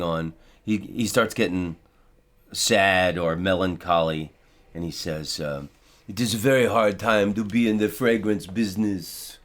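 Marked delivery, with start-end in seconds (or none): 6.1-9.4 mock sad perfumer. Imitating melancholy perfume seller.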